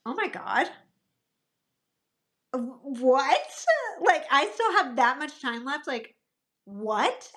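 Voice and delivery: re-live the shock of seeing the clock; retold disbelief. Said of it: "I was shocked".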